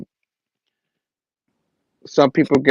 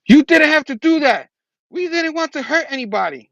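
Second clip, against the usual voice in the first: higher, mildly angry protest; pissed off Spider-Man; 11 semitones higher than usual. Retold or imitated. Spider-Man scolds Kareem for killing, mock angry. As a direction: scold him for a needless kill, half acted. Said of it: "and Spider-Man's pissed".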